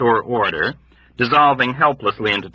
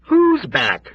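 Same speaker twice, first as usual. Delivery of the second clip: shouted; 10 semitones higher than usual. Acted. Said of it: "shouted someone else".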